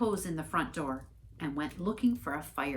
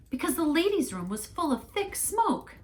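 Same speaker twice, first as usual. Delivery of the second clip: much higher, defensive lady's voice; indignant church lady; 12 semitones higher, 3 dB louder than usual. Acted. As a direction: insist like an offended church lady.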